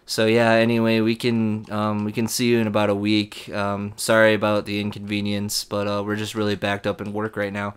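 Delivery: low, soft, calm rep voice; lightly voiced bored phone rep; unbothered rep. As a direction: play it totally unfazed.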